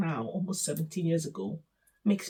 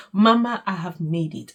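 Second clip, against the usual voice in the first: "Mama" called out much louder, then settling; triumphant outburst; 7 dB louder than usual. Retold or imitated. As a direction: burst out with the news to Mama. Repeats the thought, now triumphant.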